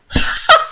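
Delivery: breathy unvoiced laugh; little real laugh. Real, not acted.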